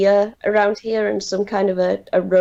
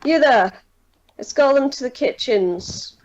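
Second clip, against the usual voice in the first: commanding captain; 4 semitones higher than usual. Acted. Captain orders a guard to escort them, commanding.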